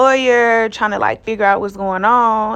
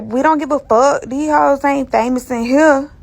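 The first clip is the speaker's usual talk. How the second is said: raised, higher mock officer voice; dismissive officer imitation; 4 semitones higher than usual. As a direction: drag it out, mimicking an unimpressed officer. Imitates officer dismissing her fame.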